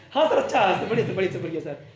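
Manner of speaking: loud, eager mock flattery; a student hiding hurt behind eager agreement; fake cheerful yes-sir. Ashish flattering teacher while hurting.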